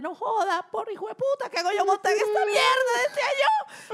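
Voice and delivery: very high, shrill, loud, terrified scream. Retelling being strapped into a fairground ride: imitating her own past screaming. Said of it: "Y yo lo que gritaba era".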